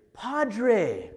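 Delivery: loud, high call across a distance. Retold or imitated. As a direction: shout it after someone walking away. Woman calls after him.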